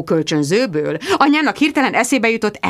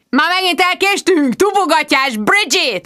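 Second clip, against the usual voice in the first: raised, loud scolding; angry boss shout; 9 semitones higher, 3 dB louder than usual. Acted. Boss yelling at Bridget for lateness. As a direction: bark at her for being late. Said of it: "ordította".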